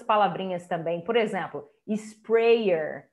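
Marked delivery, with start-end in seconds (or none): 1.9-3.1 SPRAYER said "is-PREI-er". Shown as a demonstration. Teacher giving another example word, "ei" sound in sprayer. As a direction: say SPRAYER with an "ei" vowel. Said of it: "O sonzinho do A já tá com E".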